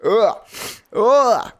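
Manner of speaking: rising loud groan of frustration; a real fed-up groan; frustrated groan. Real, not acted. Stuffed-nose sick frustration.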